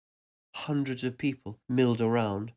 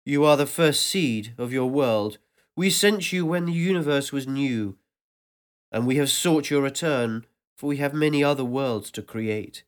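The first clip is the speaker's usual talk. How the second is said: a louder, booming welcome that seems to fill the air; vast ancient voice; 5 dB louder than usual. Acted. Ancient voice welcomes the narrator back, louder and resonant. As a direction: speak as a presence that surrounds everything. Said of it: "this new voice".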